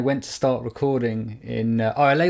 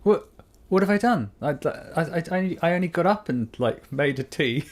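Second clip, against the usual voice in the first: wife's voice; 5 semitones higher than usual. Retold or imitated. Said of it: "She was like".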